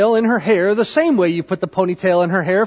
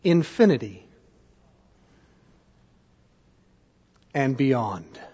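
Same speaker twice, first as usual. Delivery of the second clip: quiet; 8 semitones lower, 5 dB quieter than usual. Retold or imitated. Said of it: "he made this symbol".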